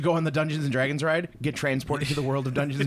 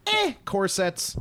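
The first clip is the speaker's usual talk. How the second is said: bored dismissive; 6 semitones higher, much slower than usual. Retold or imitated. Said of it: "people are like".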